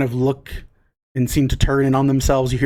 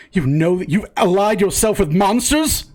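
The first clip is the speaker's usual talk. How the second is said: higher-pitched, incredulous challenge; indignant disbelief; 5 semitones higher than usual. Acted. Villager confronts an armed traveler, mildly indignant. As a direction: protest it as a shocked accusation.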